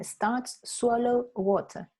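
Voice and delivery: "Starts swallow water" slow, word by word; slow, spaced-out quote of a mistake; quoting student's error. Retold or imitated. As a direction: repeat the student's words slowly and separately. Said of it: "tú dijiste".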